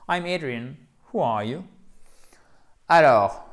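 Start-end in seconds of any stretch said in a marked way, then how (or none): 0.1-1.6 "Who are you" with H, dropping from "Who"; intonation descendante. Shown as a demonstration. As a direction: let the tune descend after "Who". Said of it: "Avec une intonation descendante". (« Who are you » en intonation descendante)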